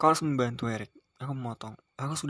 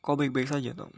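anxious; 3 semitones higher, 4 dB louder than usual. Acted. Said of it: "suara Julia terdengar cemas lagi".

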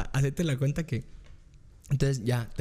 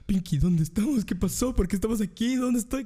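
high mock-frantic questions; panicked questioning; 8 semitones higher than usual. Hungover man to cousin in strange house, rising panic. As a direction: climb higher with each question.

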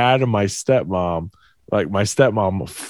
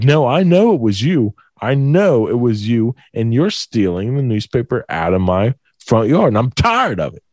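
put-on insistent caller with a light Asian accent; imitated Asian accent. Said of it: "like, this Asian accent".

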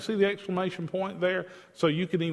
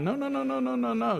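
emphatic no; 8 semitones higher, faster than usual. Real, not acted. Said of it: "rejects the misreading".

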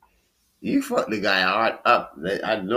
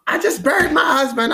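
imitating her flat news; 7 dB louder than usual. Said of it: "You was just like".

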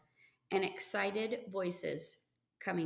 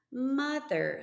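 put-on protesting boy; 6 semitones higher, 5 dB louder than usual. A narrator's reading. Albert protesting to mother.

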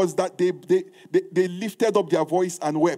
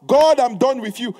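louder, bitter cry at God; mock defiant outburst; 2 semitones higher, 5 dB louder than usual. Preacher voicing a bitter believer quitting God, mock outburst. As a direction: hurl it like a hurt believer. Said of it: "That is what the enemy".

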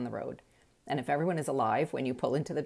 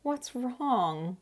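sweet concern; 9 semitones higher than usual. Retold or imitated. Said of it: "sweetly put his arm around me and said".

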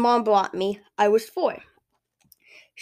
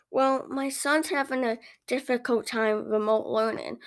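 subdued customer; 2 semitones higher, 5 dB quieter than usual. Acted. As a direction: say it quietly, a little worn out. Customer explains her worry.

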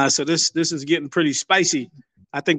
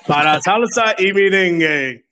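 Spanish radio announcer; 2 semitones higher than usual. Acted. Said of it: "I feel like I'm listening to La Mega".

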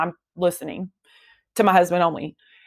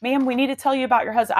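higher, hurried interruption, lightly acted; insistent medical staff; 4 semitones higher, faster than usual. Staff interrupting the searching wife, lightly mimicked urgency. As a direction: mimic staff trying to get her attention, pitched up. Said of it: "And they're going".

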